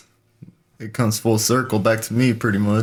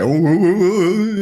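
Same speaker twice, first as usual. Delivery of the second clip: mocking a chatterer; 9 semitones higher, 5 dB louder, faster than usual. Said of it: "And then they're just like".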